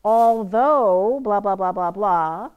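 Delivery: slow, loud drawn-out "Although" then quick blahs; mock sentence frame; dummy subordinate clause. Shown as a demonstration. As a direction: sing out "Although" as a placeholder clause. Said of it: "If I have two clauses in a sentence".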